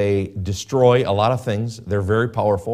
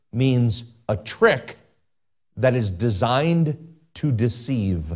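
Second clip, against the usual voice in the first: slow emphasis; slower than usual. Shown as a demonstration. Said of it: "repeats phrase for emphasis".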